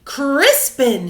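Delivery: shout. Acted. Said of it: "shouted his father".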